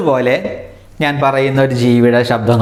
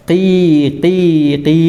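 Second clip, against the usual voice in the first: teacher's demonstration of chick cheeping; imitated chick cry; 4 semitones higher than usual. Shown as a demonstration. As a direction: mimic a crying baby bird. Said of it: "കരച്ചിലിൻ്റെ ശബ്ദം എങ്ങനെയാണ്?".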